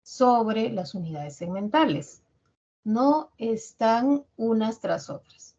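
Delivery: slow teaching emphasis. Shown as a demonstration. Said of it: "recuerden que significa sobre".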